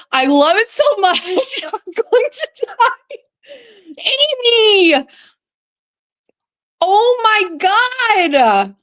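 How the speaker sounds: high, laughing squeal of delight; freaking out. Real, not acted. Streamer thanking the woman who sent a logo, ecstatic high squeal. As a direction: squeal it, overwhelmed and half laughing. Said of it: "I'm freaking out".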